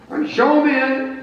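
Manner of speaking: high, loud, offhand general voice; careless general. Acted. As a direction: wave them in carelessly. Grant ordering aide.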